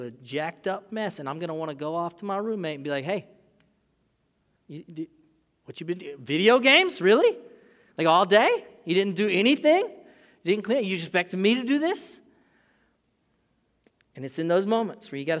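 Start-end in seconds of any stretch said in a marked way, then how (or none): 3.0-12.2 loud, high, incredulous scolding; exasperated rant. Pretend. Venting at a lazy roommate, loud and exasperated. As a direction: let the roommate have it, louder and louder.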